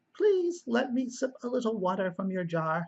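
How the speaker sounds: high-pitched servant character voice. Reading a story aloud and voicing the servant, high voice for the servant. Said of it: "two kind of high voices for the servant".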